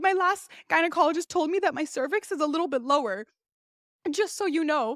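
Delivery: nervous, shaking voice that wavers and keeps cracking. Retelling own nervous words to a gynecologist, imitating own cracking, shaking voice. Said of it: "my voice was literally cracking, shaking".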